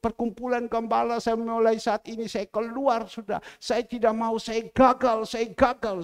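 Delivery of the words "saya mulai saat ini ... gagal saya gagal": high, loud imitation of giving up; impassioned retold lament, pitched up and pushed out; retold distraught outburst. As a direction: act out someone quitting in despair. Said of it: "dia menangis terus, sampai dia katakan".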